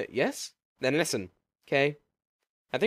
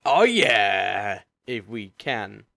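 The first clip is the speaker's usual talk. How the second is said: zombie groan; 5 semitones lower, 5 dB louder, much slower than usual. Acted.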